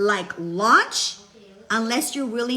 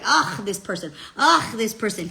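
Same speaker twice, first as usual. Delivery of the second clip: annoyed ugh. Retold or imitated. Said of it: "I was so annoyed".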